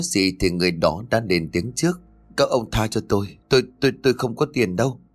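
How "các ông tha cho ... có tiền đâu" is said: stammered plea for mercy, quickening; frightened pleading. Acted. Captured stranger begs his pursuers for mercy, frightened pleading. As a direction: plead nervously, tripping over the first word.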